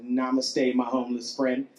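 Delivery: low, soft mock blessing; hushed, low-pitched pretend guru kindness; mock encouragement. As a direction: bestow it serenely, softly and low. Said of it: "gave him some words of encouragement".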